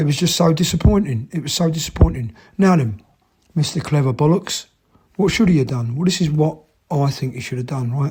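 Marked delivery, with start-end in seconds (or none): none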